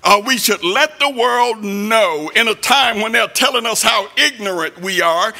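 rising, pounding sermon delivery; preaching at full force. Acted. Preacher warning the church about temptation, pounding sermon voice. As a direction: preach it hard at the congregation.

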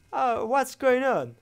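high, slow real panic; drawn-out panicked cry. Real, not acted. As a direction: stretch it out in fear. Scared player panics in English. (yavaş ve panik içinde)

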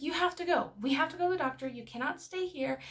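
insistent retold order to a child; firm parent.

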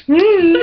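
loud high mock hmm. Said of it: "I don't go".

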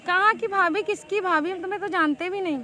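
indignant challenge. Real, not acted. She challenges his sister-in-law claim.

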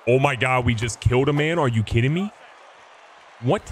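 loud, incredulous outburst rising at the end; shocked disbelief. Real, not acted. Gamer reacts to hitting a batter, shocked disbelief. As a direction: exclaim it loudly in disbelief.

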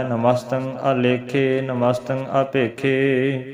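slow recitation with held endings; measured, lightly chanted verses; scripture recitation. Shown as a demonstration. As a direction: recite evenly, stretching each last vowel. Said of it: "ਇਸ ਤਰ੍ਹਾਂ ਪਾਠ ਜਿਹੜਾ ਕਰਨਾ ਹੈ".

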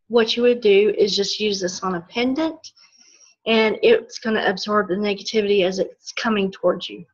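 hoarse, tired voice; losing voice. Real, not acted. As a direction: voice giving out mid-lesson. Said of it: "I'm losing my voice a little bit".

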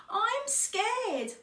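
high-pitched cub voice, mildly scared; scared cry. A narrator's reading. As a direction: cry out like a little one, lightly acted. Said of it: "Otto cried".

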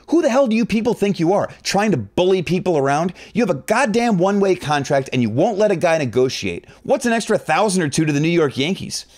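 shouting back. Retold or imitated. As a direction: fire it back at the bully manager. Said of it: "So I shouted back".

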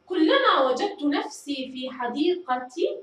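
slow reading, every word ending voiced; teacher reading slowly so pupils hear each ending; vowel-marked reading. Shown as a demonstration. Teacher reading the text aloud slowly, sounding each final vowel. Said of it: "سنقرأ النص ونضع الحركة آخر كل كلمة".

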